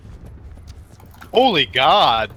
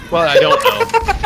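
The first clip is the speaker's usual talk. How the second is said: weary patient tech support; 4 dB louder, slower than usual. Pretend. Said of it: "tech support voice that's been challenged five times".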